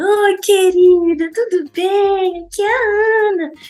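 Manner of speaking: sweet, high little voice.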